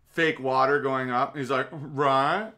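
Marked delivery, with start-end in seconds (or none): 1.7-2.5 mock Southern accent, rising end; one smug Southern check-in; Al Gore impression. Mocking Gore after showing rising water, Southern accent. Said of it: "I'm just doing a generic Southern accent".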